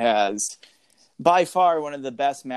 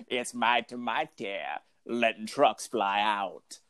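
truck noise imitation; 4 semitones lower, 7 dB quieter, slower than usual. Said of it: "like the truck coming through".

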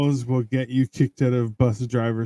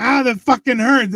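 high mock yelp of pain; 11 semitones higher, 4 dB louder than usual. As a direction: ham up being hurt, pitched up. Mock pain after punch.

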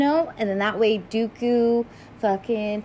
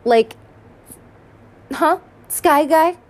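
teasing Ahsoka; 4 semitones higher, 5 dB louder than usual. Retold or imitated. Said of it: "she's like".

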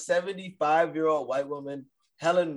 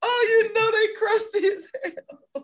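high, loud, drawn-out laughing shout; laughing outburst; 6 dB louder, slower than usual. Real, not acted. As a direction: crow it out through laughter. Joking about older women, cracking up.

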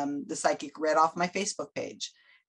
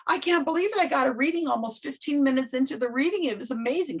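imitating giddy excitement; 7 semitones higher than usual. Quotes excited woman after reading.

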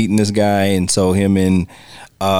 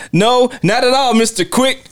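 much higher, squealing fake politeness; mock Tommy; 13 semitones higher than usual. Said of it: "Tommy's like".

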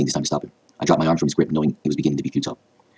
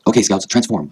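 raised, slightly panicked command; shouted order; 6 semitones higher, 4 dB louder, slower than usual. A narrator's reading. Grandfather rallying the scouts to transform, raised urgent shout. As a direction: order the team into action. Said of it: "I heard Grandpa Goku shout".

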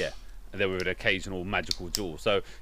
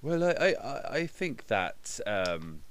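Hatch impression. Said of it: "Hatch, sorry, go on".

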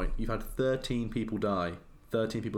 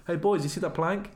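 higher-pitched mock lookout's call; sailor calling out; 7 semitones higher than usual. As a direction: call to the crew as a hammed-up sailor. Acting out sailors spotting a plank.

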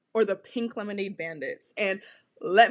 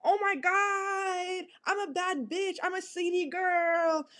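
mocking a sassy guy; 5 semitones higher than usual. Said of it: "They're like".

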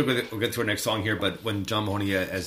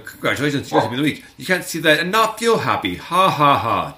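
bright, loud, higher read-out with a laugh; hammed-up cheerful announcement; 6 semitones higher, 8 dB louder than usual. Proud host reading his sign to fans, loud and cheery. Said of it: "I read it out".

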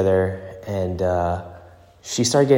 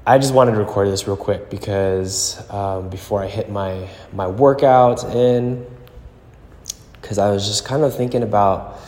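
echoing gym. Real, not acted. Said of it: "I'm in the gym right now and it's echoey".

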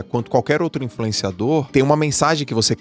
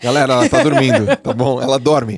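louder, laughing public notice; mock announcement; 5 dB louder than usual. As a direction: announce it to the crowd, half laughing. Mock announcement to her fans. (anúncio de brincadeira)

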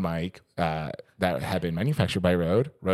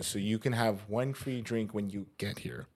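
whispering; 8 dB quieter than usual. Retold or imitated. Voicing Ash.

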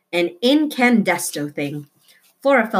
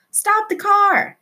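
high, slow yelled command; shouted; 4 dB louder, slower than usual. A narrator's reading. Tootie shouting at the driver to stop, loud. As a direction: yell it out to stop the car. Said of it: "she shouted".

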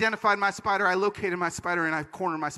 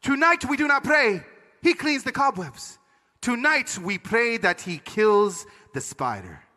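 slow, solemn Panamanian pronouncement; Panamanian father; slower than usual. Retold or imitated. Dad correcting her prayer, slow accented authority. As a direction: declare it slowly in a Panamanian accent. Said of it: "my dad looked at her and said".

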